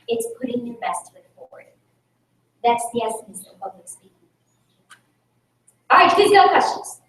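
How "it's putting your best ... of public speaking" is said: breathy dramatic whisper; hushed emphasis. Acted. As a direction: drop to a whisper to land the point. Dramatic point in motivational talk.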